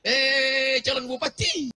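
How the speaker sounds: a mother scolding yet blessing; mock angry praise. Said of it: "kalaupun mau marah sama dia". (ibu pura-pura marah sambil mendoakan)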